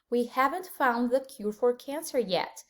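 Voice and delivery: slow model sentence. Shown as a demonstration. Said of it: "vamos ver alguns exemplos".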